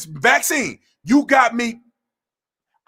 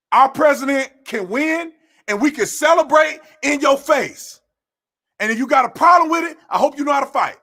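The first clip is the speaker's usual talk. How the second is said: defiant shout; 3 semitones higher than usual. Real, not acted. Daring protesters to fight, a defiant shout. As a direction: throw it in their faces. Taunting protesters after Trump wins.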